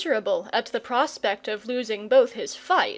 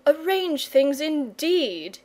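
bitter; 4 semitones higher, slower than usual. Acted. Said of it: "he said bitterly to himself".

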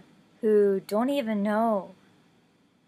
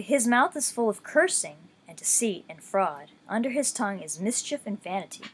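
scripture reading. Acted. Reading Psalm ten aloud to listeners, measured scripture voice. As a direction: read the psalm with steady reverence.

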